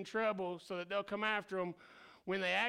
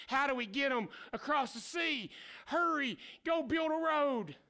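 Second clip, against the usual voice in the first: mock panicked God; 6 semitones higher than usual. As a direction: play God scrambling in a rush.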